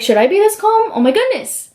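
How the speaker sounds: a nervous singer asking if he should worry; lightly voiced panicky contestant; mock anxious friend. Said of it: "So he's like".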